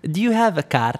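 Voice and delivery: imitated Arab car seller; Arab accent. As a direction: put on an Arab accent for the sales question. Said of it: "I'm gonna try to talk to his accent".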